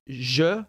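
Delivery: je said as a soft "zh" or "j"; slow, drawn-out je with a soft j; soft j sound. Shown as a demonstration. Explaining Egyptian Arabic to a viewer, je with a soft j. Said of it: "they don't say the G".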